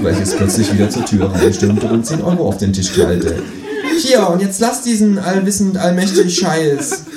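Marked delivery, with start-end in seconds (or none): 4.0-7.0 higher, louder kangaroo, slowing at the end; fed-up kangaroo. Acted. Kangaroo slaps money on the table, higher and annoyed. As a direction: slam it down and scold.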